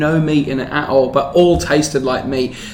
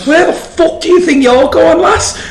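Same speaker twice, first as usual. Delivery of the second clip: higher, mock-aggressive Geordie accent; 12 semitones higher than usual. Picking a fake fight with his travel mate in Geordie. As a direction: have a go at her in a Geordie accent. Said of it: "start doing a Geordie accent".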